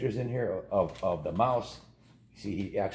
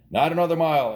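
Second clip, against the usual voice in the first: louder, higher firm refusal; father's refusal; 8 semitones higher, 8 dB louder than usual. A narrator's reading. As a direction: slam the door on the idea. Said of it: "answered the father".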